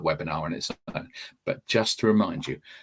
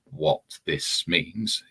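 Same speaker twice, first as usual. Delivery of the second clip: wrong example; much slower than usual. Retold or imitated. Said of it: "We don't want".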